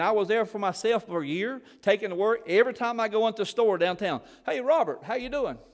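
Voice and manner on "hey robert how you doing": higher-pitched mock hello in passing; friendly greeting. Shopper greets the preacher by the wrong name, friendly higher-pitched greeting. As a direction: lightly imitate a townsperson saying hi.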